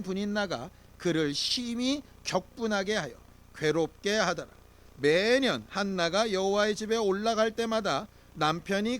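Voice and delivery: steady, measured unison Bible reading; scripture reading. Real, not acted. Pastor leading the congregation through the verse, measured reading. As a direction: read the verse aloud together.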